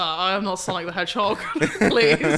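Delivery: loud, laughing protest to the couple; cracking up while refusing a too-short kiss; laughing mock protest. Photographer laughing at a couple, loud mock protest.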